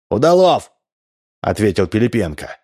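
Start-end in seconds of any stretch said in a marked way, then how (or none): 0.1-0.7 loud high call up. A narrator's reading. Captain calling up to window, loud call. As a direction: hail him from the street.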